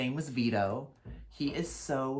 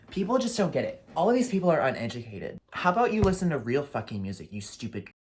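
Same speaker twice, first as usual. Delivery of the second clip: angry rant; 5 dB louder, faster than usual. Real, not acted. Continuing rant about crowd.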